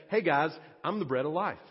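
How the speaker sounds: quick casual "Hey guys, I'm the bread of life"; offhand, breezy "I'm the bread of life"; low-key, relaxed. Shown as a demonstration. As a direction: toss it off like a friendly aside. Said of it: "in a really low-key, kind of relaxed manner".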